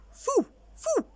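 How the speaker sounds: very high, loud foo; silly reversed woof; backwards bark. Acted. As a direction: bark it back to front. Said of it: "said the dog skeleton".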